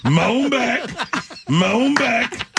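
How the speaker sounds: high, mocking redneck twang; exaggerated high redneck voice; redneck accent. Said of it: "She's a redneck".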